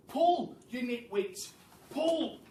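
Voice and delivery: rally the nitwits to pull; straining order. Acted. Mugglewump heaving the carpet.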